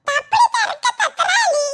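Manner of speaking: high, slow, laughing mangled speech; old man's speech defect. Acted. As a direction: garble every word through a grin. Old man speaks with a lisp.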